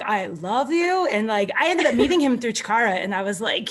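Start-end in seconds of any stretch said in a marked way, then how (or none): 0.0-1.1 lovestruck. Retold or imitated. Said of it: "I'm like".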